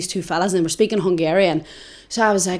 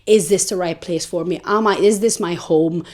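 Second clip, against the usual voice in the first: somber; 2 semitones lower, 3 dB quieter than usual. Retold or imitated. Homesick traveller back in Liverpool thinking aloud, somber. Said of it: "so somber, so sad".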